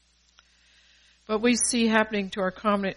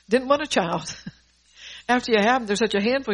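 amused; 5 semitones higher, 6 dB louder than usual. Real, not acted. Joking about wanting children, laughs.

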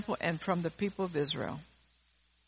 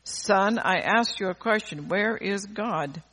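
hammed-up booming pastor; mock bellow; 3 semitones higher, 4 dB louder, slower than usual. Preacher retelling huge pastor bellowing at the boy, mock bellow. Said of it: "raised his voice even more ... and bellowed".

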